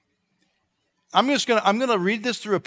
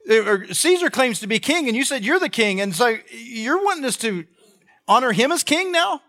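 mildly indignant, pitched-up protest; indignant objection; 5 semitones higher than usual. Acted. Jews challenging Jesus over honoring Caesar, indignant objection. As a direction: rise in pitch toward an incredulous question. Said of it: "all the Jews are gonna say".

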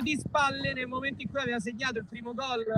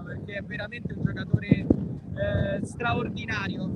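wind on mic; 2 semitones lower than usual. Real, not acted. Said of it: "Scusate il vento".

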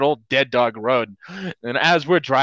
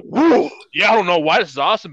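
put-on hyped kid; 4 semitones higher, 4 dB louder than usual.

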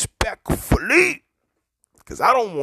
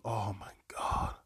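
whisper; 2 semitones lower, 12 dB quieter than usual. Real, not acted. Stops himself mid-compliment.

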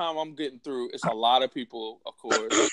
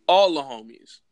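breathy hushed aside; whisper; 6 dB louder than usual. Real, not acted. Inviting a friend on a trip, whispered aside. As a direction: drop to a whisper on it.

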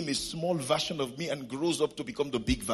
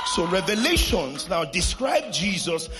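higher pulpit voice building through a list; emphatic preaching; 4 semitones higher, 4 dB louder than usual. Real, not acted. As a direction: lift each phrase for the congregation.

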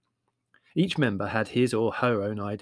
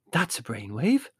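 mildly delighted motherly reply. Acted. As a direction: welcome the idea with a touch of delight. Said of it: "said Mother delightedly".

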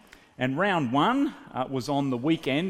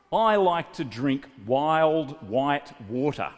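proud phrase; slower than usual. Retold or imitated. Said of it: "I was gonna say in French".

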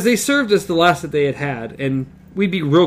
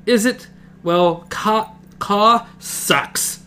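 higher, mocking retort; sarcastic; 7 semitones higher, much slower than usual. Eddie mocks the idea of Ka to Jake. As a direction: scoff at fate with a sneer.

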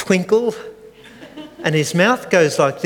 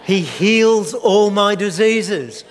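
proclaiming; 5 semitones higher, slower than usual. Acted. Preacher calling out the psalm for the crowd to answer. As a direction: drag it out joyfully as a cue. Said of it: "give you the signal".

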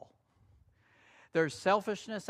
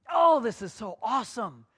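louder, delighted exclamation; excited; 3 semitones higher, 7 dB louder than usual. Real, not acted. Preacher marvelling to the church, loud and delighted. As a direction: burst out in awe.

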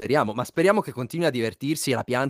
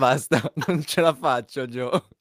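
laughing. Real, not acted. Can't stop laughing.

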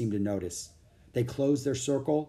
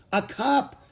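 surprised; 11 semitones higher, 4 dB louder than usual. A narrator's reading. Girl receives a surprising gift.

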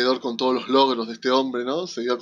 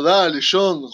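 lightly acted, higher and louder calling to a friend; impatient friend; 5 semitones higher, 5 dB louder, much slower than usual. Friends waiting outside a fitting room, lightly mock impatience. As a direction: playfully hurry a friend along. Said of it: "como si fueran dos amigas esperando".

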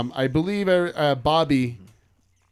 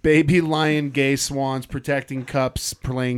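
slow reading; slower than usual. Acted. Reading site name slowly.

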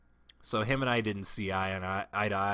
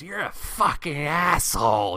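slow, loud mock yell down the hall; retelling Doug shouting an insult; yelled across hallway; 7 semitones higher, 10 dB louder, slower than usual. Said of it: "across the hallway".

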